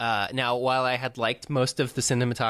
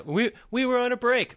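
high, whiny defensive protest; high mock-indignant Ross; Ross impression; 13 semitones higher than usual. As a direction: whine it like Ross. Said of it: "Ross says to Rachel".

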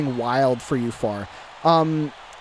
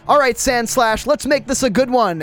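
higher and louder battle cry; calling out; 8 semitones higher, 5 dB louder than usual. Acted. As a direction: hype up your Pokemon. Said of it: "William calls out".

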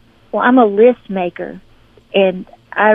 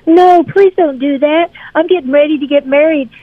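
pleading friend; 8 semitones higher than usual. Retold or imitated. Lou, about to marry, begs her to keep renting: pleading. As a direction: beg her not to pull the camera.

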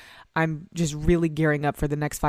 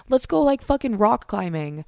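eager friend voice; 5 semitones higher than usual. Acted. Voicing wholesome friends' suggestion.

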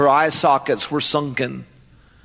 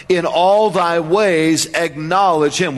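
slow emphasis; slower than usual. Shown as a demonstration. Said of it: "repeated slowly for emphasis".

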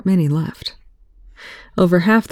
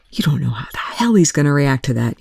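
snarled. Acted. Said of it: "Young snarled".

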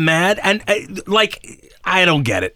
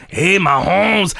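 slow, drawn out hyped call of Mahomes; mock cheer; much slower than usual. Recreating what he kept shouting during the game, slow hyped call. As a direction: stretch out Mahomes like a stadium announcer. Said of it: "I had to keep saying it the whole time".

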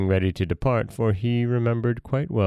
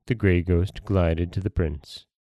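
usual speaking voice

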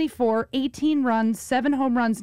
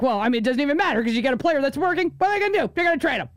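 lightly voiced grumbling retiree, rising in pitch; negative dad; 4 semitones higher, much faster than usual. Daughter imitating her dad on the phone, negative. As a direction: imitate a pessimistic dad, rushing into a higher-pitched complaint. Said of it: "he's, like, negative retirement guy".

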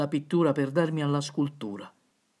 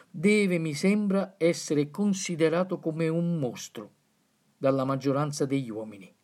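solemn quotation reading. Acted. Reads a philosopher's quote.

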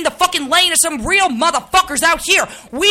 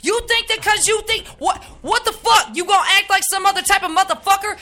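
angry rant; 2 semitones higher than usual. Acted. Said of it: "This is a real live snap".

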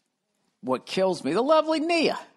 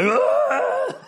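mock cheer; 5 dB louder than usual. Owners cheer a playoff win.

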